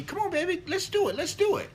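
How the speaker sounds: high-pitched imitation of his wife pleading; wife coaxing. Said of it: "my wife, she was asking me".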